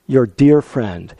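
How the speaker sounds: slow tender echo. Shown as a demonstration. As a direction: linger tenderly on dear. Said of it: "Your dear friend from Honolulu".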